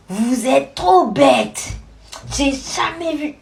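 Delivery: slow, scornful put-down voice; insulting teacher. Retold or imitated. Madame Sissoko scolds the whole class, slow scornful voice. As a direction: drag out the insult like a contemptuous teacher. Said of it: "Elle était là".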